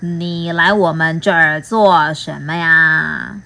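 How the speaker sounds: low, slow mock menace; a hint of a scary monster. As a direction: loom over the visitor. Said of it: "可怕的妖怪们".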